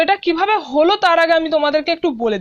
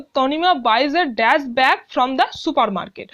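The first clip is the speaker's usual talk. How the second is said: reads the sentence very slowly, word by word; slow classroom read-aloud; slow dictation reading; 3 semitones lower, much slower than usual. Shown as a demonstration. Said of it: "teacher reads exercise sentence aloud".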